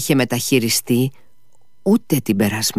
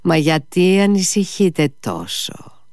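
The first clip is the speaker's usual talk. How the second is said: contempt; 7 semitones higher than usual. A narrator's reading. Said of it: "όχι μονάχα με περιφρόνηση, μα σχεδόν με σιχασιά".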